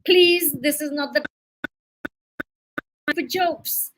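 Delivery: slow, mildly admonishing plea; understated narrated scolding. A narrator's reading. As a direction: read it as a drawn-out mild reproof. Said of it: "Mister Thompson admonished them".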